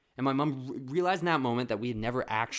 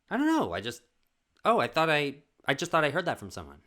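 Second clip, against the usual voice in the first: high, louder flustered backpedal; 5 semitones higher, 5 dB louder, faster than usual. Retold or imitated. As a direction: scramble out an excuse, squeaky. Mom flustered again, voiced.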